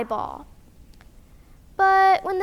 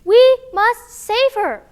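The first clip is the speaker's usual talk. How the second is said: high loud vroom, then slow loud rallying cry; engine noises and call; 8 semitones higher, 8 dB louder, slower than usual. Acted. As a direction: rev up the scooter and charge off. Sister starts her scooter.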